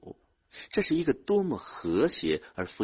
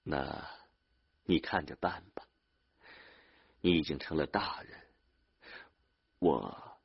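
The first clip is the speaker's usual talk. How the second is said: lost for words; 2 semitones lower, 5 dB quieter than usual. A narrator's reading. Older brother giving up arguing with younger one, lost for words. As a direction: give in reluctantly, trailing into silence. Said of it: "他感到语塞".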